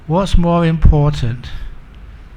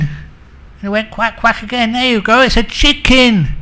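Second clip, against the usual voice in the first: high-pitched mock-quarrel voice; heated insistence; 7 semitones higher, 4 dB louder than usual. Wife points to the quacking as proof, heatedly insistent. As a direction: press the point as if it proves everything.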